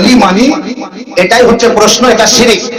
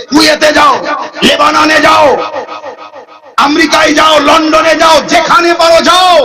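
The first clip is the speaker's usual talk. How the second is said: preacher's list climbing steadily higher; mounting challenge; 3 semitones higher than usual. Retold or imitated. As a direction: throw out each place as a rising dare. Preacher's mounting challenge to search everywhere. (ক্রমে চড়া গলায় challenge)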